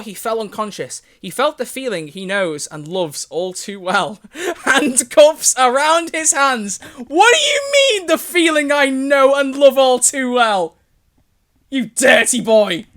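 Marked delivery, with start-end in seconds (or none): 4.6-12.9 high, loud, drawn-out squeal; scandalised outburst. Real, not acted. Reader protesting the writer's innuendo, squealing outrage. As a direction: wail it in mock outrage, stretched out.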